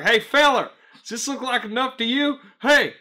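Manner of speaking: high, loud caricature of a customer; mocking customer voice. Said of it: "going off in that voice".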